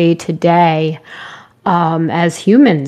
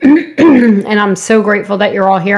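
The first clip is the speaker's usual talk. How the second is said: slightly hoarse, voice wearing out; hoarse from talking too much; 2 semitones higher, 3 dB louder than usual. Real, not acted. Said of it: "I'm already losing my voice".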